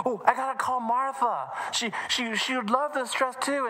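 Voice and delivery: put-on high, bubbly girl's voice; can't wait to share; eager child. Emily decides to call Martha, high and eager.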